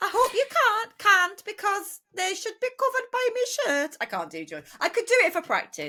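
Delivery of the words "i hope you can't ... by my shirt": Newcastle accent, higher. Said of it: "the only line I can do in this accent".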